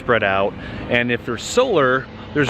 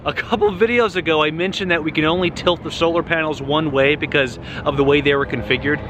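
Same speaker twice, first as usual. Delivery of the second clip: raised, higher voice over the noise; yelling over leaf blower; 4 semitones higher than usual. Real, not acted. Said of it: "maybe I'll just yell".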